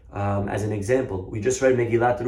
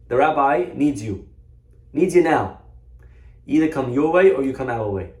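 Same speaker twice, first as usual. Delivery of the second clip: firm, louder officer pressing his demand; insistent; 2 semitones higher, 5 dB louder than usual. Acted. Officers order busy shopkeeper to come along, insistent. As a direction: press each phrase with rising force.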